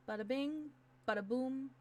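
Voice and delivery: excited. Real, not acted. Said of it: "I'm getting really excited now".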